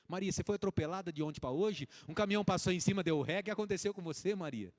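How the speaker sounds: loud, teasing disbelief; mock shocked outcry. Single man meets Maria in person, loud mock shock. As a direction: cry out as if she was run over.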